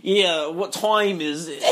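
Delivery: slow, exaggerated northern accent. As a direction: tease a friend with a drawn-out northern accent. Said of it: "very northern".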